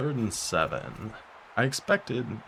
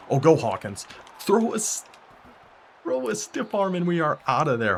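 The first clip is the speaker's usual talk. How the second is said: louder, higher cheering on; excited cheering; 10 semitones higher, 6 dB louder than usual. Real, not acted. Gamer cheering his running back downfield, excited. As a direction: urge the runner on.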